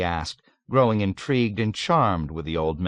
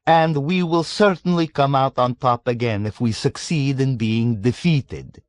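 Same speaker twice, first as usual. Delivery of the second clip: put-on raised, louder worldly old man holding forth; sly old man lecturing; 6 semitones higher, 5 dB louder than usual. A narrator's reading. Old man lectures young American, sly and amused. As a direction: relish every paradox.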